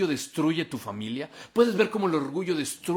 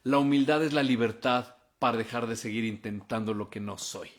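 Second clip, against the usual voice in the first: measured dictation pace; slow for note-taking; 3 semitones lower than usual. Real, not acted. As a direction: say it carefully so they can write it down. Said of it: "te lo voy a decir despacito para que lo apuntes".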